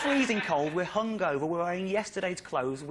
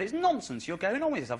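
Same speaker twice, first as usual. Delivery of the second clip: tag; 5 semitones higher than usual. Retold or imitated. Acting out friend's scornful disbelief.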